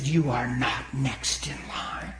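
slow, firm declaration; measured, deliberate retold prophecy; retold strong prophecy. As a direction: pronounce it slowly, word by word. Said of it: "I got real strong with it".

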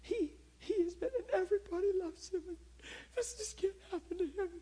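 high, weepy mock sob; crying woman pleading, imitated high; imitating her crying. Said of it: "she's so full of empathy".

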